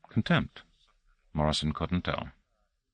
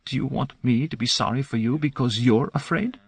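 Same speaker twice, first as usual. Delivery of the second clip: hissing through teeth; 6 semitones higher than usual. A narrator's reading. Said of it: "virtually hissing through clenched teeth".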